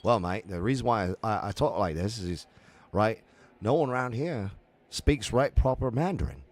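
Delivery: cheeky London Cockney voice; retold Cockney accent at a Renaissance fair. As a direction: slip into a Cockney accent mid-chat. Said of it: "I slipped in the".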